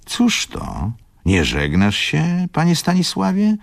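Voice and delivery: high, rising astonishment; surprised question. A narrator's reading. Tomasz to departing Stanisław, surprised high question. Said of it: "zapytał zdziwiony pan Tomasz".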